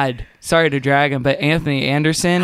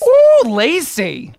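slow teasing ooh; 8 semitones higher, 4 dB louder, much slower than usual. Real, not acted. Cheering friend's video.

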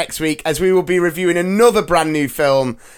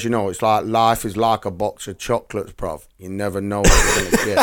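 mock London Forrest Gump; 6 semitones lower than usual. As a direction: tease your mate by doing Gump in his London voice. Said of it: "no, if I was doing you".

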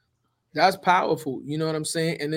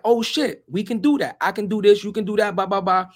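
eager pitch; 3 semitones higher, 3 dB louder than usual. Retold or imitated. Retelling excited pitch to mentor.

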